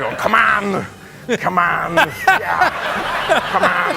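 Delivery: loud, high hype-up chant; psyching himself up before the take; pumped-up urging. Retold or imitated. Actor pumping himself up, laughing loud urging.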